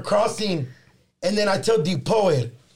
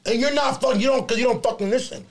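frustrated rant; 6 semitones higher than usual. Retold or imitated. Frustrated about the man he never found, venting in a raised voice. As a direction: vent at the absent man who never listens. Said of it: "that's what was frustrating".

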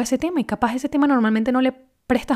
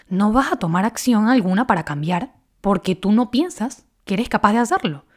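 ordinary talk, nothing marked

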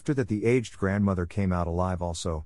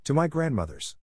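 put-on higher, innocent young girl; little girl voice; 6 semitones higher than usual. A narrator's reading. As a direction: answer brightly like a child. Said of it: "Little Red Cap".

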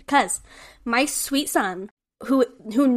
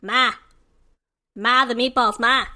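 Stewie impression; 3 dB louder than usual. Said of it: "Like Stewie on Family Guy".

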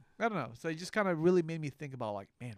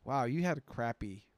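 slow retold quote breaking into laughter; laughing mock amazement; 4 dB louder, slower than usual. Brother reacts to his horrible childhood traditions, amused disbelief.

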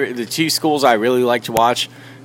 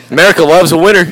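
laughing; 3 semitones higher, 4 dB louder, faster than usual. Real, not acted. Repeating catchphrase while laughing.

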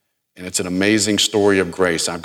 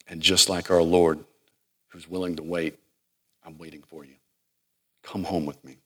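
tender Hosea. Retold or imitated. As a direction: gently call her home, almost whispering. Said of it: "And I can hear Hosea saying".

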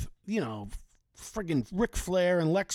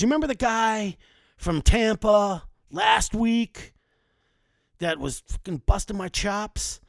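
imitating Rick Rude's raised, angry voice; ranting wrestler; 4 semitones higher, 3 dB louder than usual. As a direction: bellow it like a riled-up pro wrestler. Wrestler Rick Rude ranting backstage.

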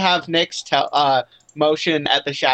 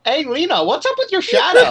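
excited shout; 12 semitones higher than usual. Acted. Calling out teasingly.

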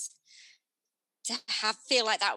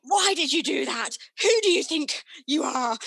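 put-on loud, high-pitched yell at the kids; re-enacted telling-off, raised voice; parent shouting; 5 semitones higher, 7 dB louder than usual. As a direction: let rip like a parent venting in the car. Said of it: "do shout at my kids".

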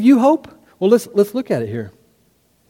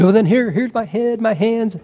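higher-pitched, over-eager offer; eager backtracking; 5 semitones higher than usual. Acted. Peter offering Jesus more than his feet, over-eager. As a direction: give in eagerly, pitch jumping up.

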